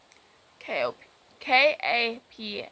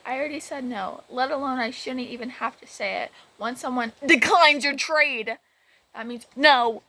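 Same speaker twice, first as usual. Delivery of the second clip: rising to a louder firm scold; stern scolding; 4 dB louder than usual. Retold or imitated. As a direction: lay down the law, getting louder. Scolding kid over repeated trades.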